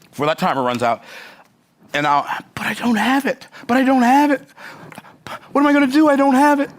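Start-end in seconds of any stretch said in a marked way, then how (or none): 2.6-6.7 put-on Australian accent, pitched up and getting louder; flustered Aussie pleading he can't pay; mock-panicked Australian voice; panicky Australian accent. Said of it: "my Australian accent's not that good".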